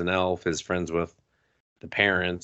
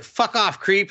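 high, snotty brush-off; mock snarl; 11 semitones higher than usual. Angry girl rejecting the boy, high and snotty. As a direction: sneer him away. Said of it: "she's like".

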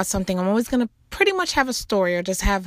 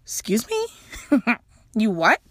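shocked excuse me. Real, not acted. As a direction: play it like the words just stung.

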